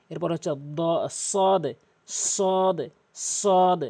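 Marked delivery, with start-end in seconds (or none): 1.1-3.8 "সদ" with a heavy s and a long rounded vowel; pronunciation demo. Shown as a demonstration. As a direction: hold "সদ" long on a level tone, closing on d. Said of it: "এভাবে উচ্চারণ করবেন". ("সদ" ভারী স দিয়ে টেনে উচ্চারণ)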